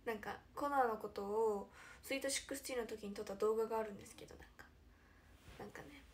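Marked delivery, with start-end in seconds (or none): none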